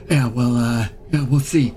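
put-on lightly done Queens wise-guy accent; a small creature talking like a guy from Queens; light New York Queens accent, a touch brash. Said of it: "I'm from Queens".

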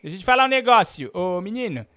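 loud, high comic rant of accusation; mock furious yelling. Host yelling at the caller he blames for stolen sausages, furious. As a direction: bellow at him like a robbed neighbour.

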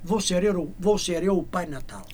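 measured verse reading with pauses; poem recitation. Acted. Singer reciting his own Father Christmas verse, poem recitation.

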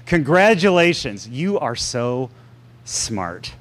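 dry mock praise, slowing on the end; sarcastic. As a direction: drawl "so smart" with heavy irony. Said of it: "That was sarcasm".

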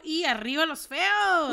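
slow, drawn-out cheer; slow mock cheer for the ugly ones; read out slowly. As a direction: stretch it out like a rallying cry. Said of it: "dice Garotina".

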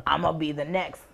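a clumsy Southern accent impression; bad Southern accent. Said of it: "That's my really bad Southern accent".

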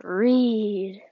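drawn-out, eerie creature command; long, otherworldly urging; dark thing's voice. Acted. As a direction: stretch the word out like a looming dark presence. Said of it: "the dark thing said".

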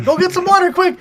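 high, loud urgent call; urgent shout. Retold or imitated. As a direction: yell at her to save herself. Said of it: "I'm like".

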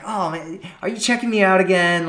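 high, quick mock accusation; playful tease. Shown as a demonstration. Woman teasing a man who keeps looking, playful mock accusation. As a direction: catch him out, all playful. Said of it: "you're just making it fun".

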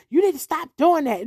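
mildly nasty imitation of a neighbour; nasty scolding. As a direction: retell a nasty order with light bite. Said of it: "Just real nasty".

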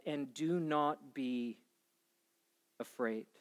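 gentle scripture reading. Acted. Pastor reading Jesus' promise to the church, gentle and soft. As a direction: read it like a quiet blessing.

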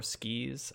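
"Skis" as a third variant, like skeez; alternate pronunciation. Shown as a demonstration. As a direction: say "Skis" with a long ee vowel. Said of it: "however you wanna pronounce that".

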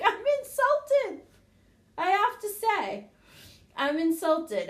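high, slow and loud, hammed-up offense; mock insulted. Mom to her son, hamming up her offended pride. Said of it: "And I'm like".

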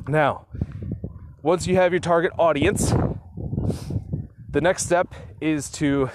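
out of breath from walking fast; breathless while walking. Real, not acted. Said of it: "sorry, I'm a little out of breath".

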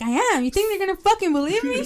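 high-pitched disbelieving retort; rising, indignant mock protest; mock incredulous. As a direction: imitate a friend protesting in disbelief. Retold friend doubts he'll be believed.

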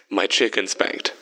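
slow, deliberate completion of a thought; slowly. A narrator's reading. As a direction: spell it out word by word, distracted. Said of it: "Vern said slowly".

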